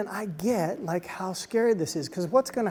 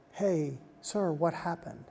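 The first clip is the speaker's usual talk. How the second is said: gentle concern; 4 dB quieter than usual. Retold or imitated. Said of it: "She shifted and said".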